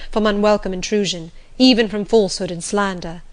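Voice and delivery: lightly voiced master, forceful and insistent; agitated, determined master. Master tells Jane he will shut up Thornfield Hall, agitated. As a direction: press the plans on with firm resolve.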